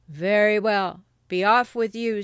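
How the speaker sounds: loud troll dismissal; gruff troll. Acted. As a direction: send the goat away as the troll. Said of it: "roared the troll".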